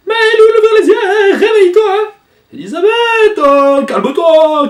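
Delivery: very high, loud, drawn-out cries; frantic shouting. Acted. Elisabeth screaming at Maël to wake up. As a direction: scream his name to wake him. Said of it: "Tu vas arrêter de crier comme ça".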